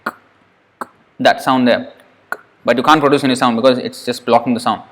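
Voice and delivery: k held without release, blocked sound; held k closure. Shown as a demonstration. Teacher showing a blocked k closure. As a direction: hold the k and don't release. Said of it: "without releasing".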